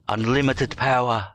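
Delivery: a light hint of the Emperor; lightly voiced Sith lord line; Palpatine. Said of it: "like Palpatine would say".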